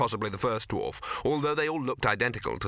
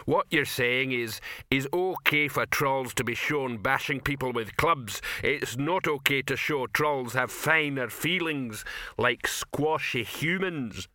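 slow, lightly voiced troll complaint; mildly indignant, plodding troll; aggrieved troll; 3 semitones higher, slower than usual. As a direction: spell out a grievance ponderously.

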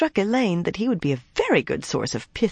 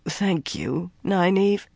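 hollow voice; 4 semitones higher, slower than usual. A narrator's reading. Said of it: "he spoke in a hollow voice".

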